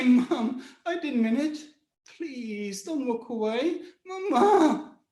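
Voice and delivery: rising plea breaking on Mama; pleading. Retold or imitated. Son to mother, pleading with a sob. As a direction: beg her to stay.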